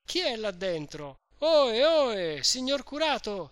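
high, loud calls up to the window; crowd calling out. A narrator's reading. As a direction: call the priest from the street below. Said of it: "chiamare a voce di popolo".

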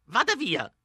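put-on old woman shouting from behind the door; an old lady threatening to shoot; strangely deep voice. Old woman yells at strangers at her door, threatening. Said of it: "ripeté".

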